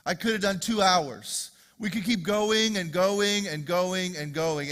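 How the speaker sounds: building, punchy sermon delivery; emphatic preaching. Real, not acted. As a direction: drive each point home, stretching the last lines.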